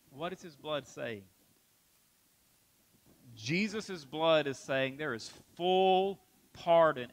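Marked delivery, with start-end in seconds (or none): 0.1-1.2 hushed repeat. Acted. Repeated question, second one hushed.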